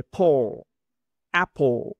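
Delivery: "Apple" ending in a linked p-l; linked pl demo. Shown as a demonstration. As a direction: join p and l in "Apple". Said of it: "la L quedaría con la P y la L". ("Apple" con la P unida a la L)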